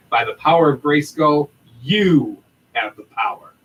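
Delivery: upbeat convention promo read, hyping every line; promo announcement read. Acted. Podcast host reading the PowerCon announcement to fans, promo voice. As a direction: sell the convention like a radio ad.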